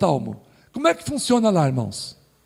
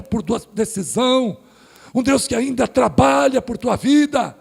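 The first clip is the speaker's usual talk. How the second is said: preaching appeal; 3 semitones higher than usual. Acted. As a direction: urge the congregation, rising fervour. Pregação em apelo forte. (apelo de pregador fervoroso)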